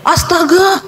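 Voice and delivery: high gasp of disbelief, re-enacted; astonished. Wife seeing the pastor's number, high-pitched astonishment. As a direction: react in shocked disbelief.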